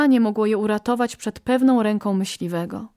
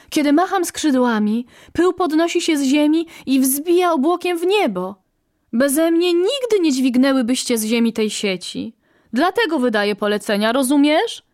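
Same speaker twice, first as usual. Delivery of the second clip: a touch of boasting, pitched higher; lightly voiced bossy quail; 5 semitones higher, 3 dB louder than usual. First quail justifying her orders, lightly voiced bossy boast. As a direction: brag as the one in charge.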